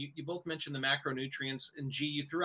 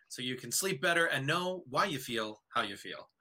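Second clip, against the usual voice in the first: upbeat ad-read delivery; commercial voice. Pretend. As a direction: pitch it like a sponsor spot. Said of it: "Did that sound commercially enough?".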